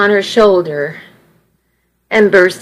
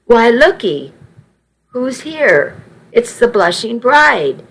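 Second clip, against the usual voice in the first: cried happily; 3 semitones higher than usual. Acted. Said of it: "Nana cried happily".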